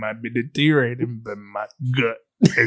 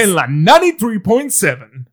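radio DJ voice; 5 semitones higher, 4 dB louder than usual. Pretend. Station frequency announced.

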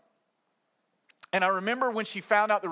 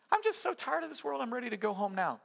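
mock weary sigh; 5 semitones higher, 5 dB quieter than usual. Mock weary resigned quote.

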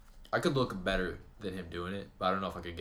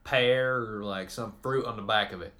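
clueless irate caller; 5 dB louder than usual. Pretend. Caller describing a computer to tech support, mock impatient. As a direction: grope loudly for the word, playing clueless. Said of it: "You're calling me because you're having a problem".

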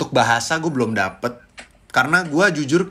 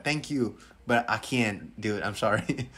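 sheepish apology; 4 semitones lower, 9 dB quieter, slower than usual. Retold or imitated. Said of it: "Gue kayak".

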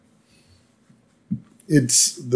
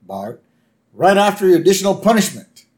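higher, brisk official voice; a lightly voiced prime minister handing out a sentence; 7 semitones higher, 3 dB louder than usual. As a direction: play the smug Prime Minister. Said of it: "the Prime Minister goes".

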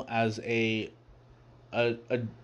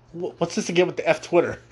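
higher, giggling mock confusion; laughing through the quote; 5 semitones higher than usual. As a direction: ask it while cracking up. Character puzzled by repeated "F Twitter.

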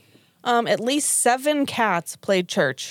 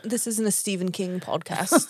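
a light, shaky attempt at a British accent; 2 semitones lower, 5 dB quieter than usual. Real, not acted. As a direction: slip into a hint of mock British. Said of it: "say that in a British accent".

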